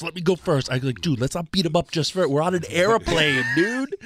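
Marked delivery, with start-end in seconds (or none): 0.0-0.7 higher, pushier repeat; more eager. Retold or imitated. Umaga eager to fight. 1.0-3.9 fast, higher, laughing; laughing plea. Retold or imitated. Restraining a friend, laughing.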